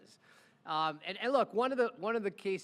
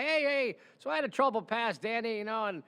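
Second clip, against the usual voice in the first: higher, louder smooth-talking hustler voice; smooth talker; 4 semitones higher, 4 dB louder than usual. Retold or imitated. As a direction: charm him like a slick old con man. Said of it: "Real smooth talking guy".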